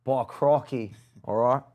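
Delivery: lightly mocked Australian accent; a hint of Australian accent. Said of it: "in the accent".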